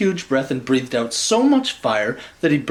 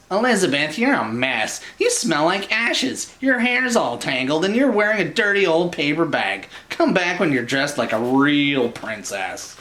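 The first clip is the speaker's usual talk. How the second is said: a hint of a sneering prince, higher; lightly voiced snooty prince; 3 semitones higher than usual. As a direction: look down on her mess. Prince Ronald scolding Elizabeth.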